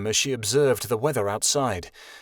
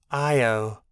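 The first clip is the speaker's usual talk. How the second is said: sad whimper; 2 semitones lower than usual. A narrator's reading. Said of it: "Ali whimpered sadly".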